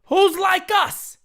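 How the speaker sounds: Hulk Hogan-style drawn-out hype shout; slow wrestling-promo growl. Retold or imitated. Hyping the chat like a wrestler, slow promo bellow. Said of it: "I'll do the Hulk Hogan".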